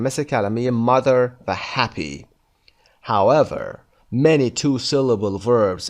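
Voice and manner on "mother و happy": MO in mother and HAP in happy stressed; stress on first syllables. Shown as a demonstration. Teacher repeating examples in Persian lesson, first-syllable stress on mother and happy. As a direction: hit the start of mother and happy.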